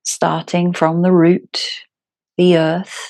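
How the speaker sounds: calm, unhurried yoga teacher with long pauses; guided meditation. Acted. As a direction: guide them gently into their breath, phrase by phrase.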